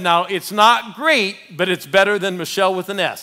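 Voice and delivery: excited quote. Retold or imitated. Quoting agent, excited retelling.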